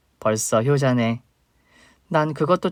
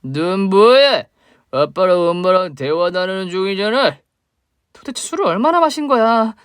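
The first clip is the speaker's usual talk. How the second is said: put-on slow, slurring drunk man, bitter and loud; a sloppy drunk spitting out old grudges; drunk father; 7 semitones higher, 4 dB louder than usual. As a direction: drunk father accusing the woman he mistakes for his wife. Drunk father confronts ex-wife.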